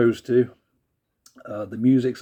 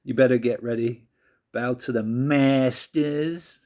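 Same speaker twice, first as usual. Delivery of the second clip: bad American accent. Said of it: "Sorry about a very bad American accent".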